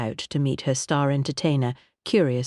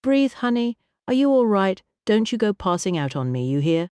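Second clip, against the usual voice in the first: put-on soft American accent; 6 semitones higher than usual. A narrator's reading. Singer seeing Kitty sway, concerned American accent. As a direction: catch her with worry in an American accent. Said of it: "soft American accent as smooth as honey".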